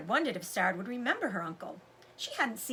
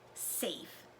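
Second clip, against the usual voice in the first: whispered under the breath, much softer; hushed thought; 5 semitones lower, 11 dB quieter than usual. A narrator's reading. Dog watching Sarah leave with uncle, whispered thought. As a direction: breathe the word like a private thought.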